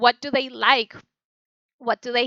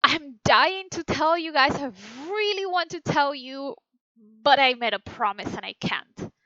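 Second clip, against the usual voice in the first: eager; 3 semitones higher than usual. Shown as a demonstration. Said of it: "it's like".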